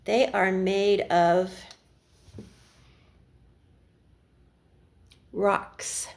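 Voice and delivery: slow build, then rocks whispered; suspense reveal. A narrator's reading. Storyteller teasing the children with the reveal, slow then hushed. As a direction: hold back, then drop the word in a hush.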